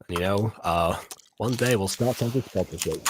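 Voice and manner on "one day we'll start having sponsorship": underwater. Real, not acted. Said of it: "You sound like you're underwater".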